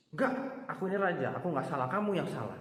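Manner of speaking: high, arrogant denial; proud king. Retold or imitated.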